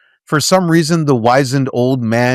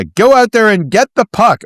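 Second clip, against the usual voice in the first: mock coach yell; 7 semitones higher, 3 dB louder than usual. Mock coach yelling at players.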